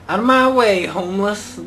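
frustrated driver yelling out of my way; yelling at traffic. Real, not acted. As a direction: bark it out at the traffic. Yelling at pedestrians in game.

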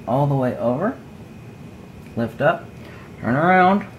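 side-of-mouth talk while working; talking out of mouth corner. Real, not acted. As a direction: speak from the corner of your mouth, hands busy. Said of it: "Talking out of the corner of my mouth".

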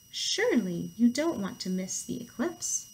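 lightly voiced, slow storybook turtle; a hint of a patient turtle; calm turtle. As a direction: gently coax in an unhurried way.

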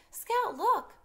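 high, loud urgent call. Acted. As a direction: point it out, alarmed. Child calls out at fire.

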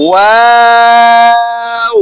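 ওয়াও held long and loud on one pitch; loud drawn-out letter name. Shown as a demonstration. Teacher showing students the lip letters, long loud held tone. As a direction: sing out ওয়াও slowly and evenly. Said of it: "খেয়াল করেন".

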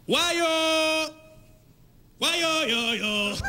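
stoned babble. Retold or imitated. Stoned driver fails test.

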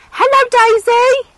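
put-on high, slow, loud baby-talk prompt; sing-song demo for a toddler. Shown as a demonstration. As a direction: model the words slowly for a small child. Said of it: "Come here, say, say".

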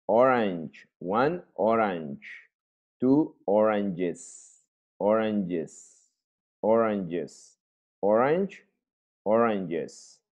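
orange and oranges said slowly, ch against j-es; pronunciation drill. Shown as a demonstration. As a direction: model each orange and oranges clearly for the class. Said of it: "Escuchan la pronunciación". (modelando orange y oranges despacio)

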